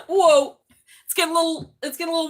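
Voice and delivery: loud, high laughing whoa; startled whoa. Real, not acted. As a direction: exclaim in surprise. Startled by cards.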